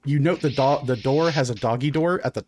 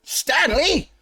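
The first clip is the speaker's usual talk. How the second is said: high, slow, drawn-out exasperated cry; exasperated shopkeeper; 13 semitones higher, much slower than usual. Acted. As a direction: groan at the pet squid in mock dismay. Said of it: "And he".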